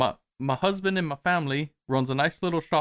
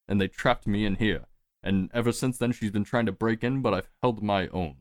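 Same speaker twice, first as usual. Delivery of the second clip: a hint of a calm liar spinning a tale; Sir Bud's voice; 3 semitones lower than usual. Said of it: "says, uh".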